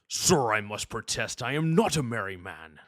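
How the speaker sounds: stiff, formal Klingon officer; Worf. Acted. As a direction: protest with a Klingon warrior's dignity. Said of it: "Let me try that one more time".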